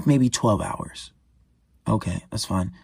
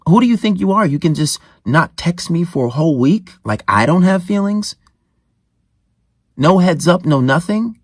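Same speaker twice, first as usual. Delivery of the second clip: mildly indignant, higher challenging questions; 4 semitones higher than usual. Acted. Confronting a girl who ignored him for a week, indignant. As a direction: act out an offended challenge, pitch raised.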